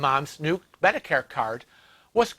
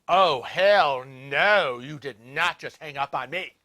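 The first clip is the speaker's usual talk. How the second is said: 1 indignant disbelief; 3 semitones lower, slower than usual. Retold or imitated. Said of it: "And I'm like".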